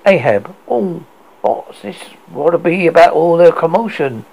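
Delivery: put-on lightly grizzled old captain; a hint of a grizzled sea captain; low gravelly dry calm. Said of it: "Ahab cried in his grizzled voice".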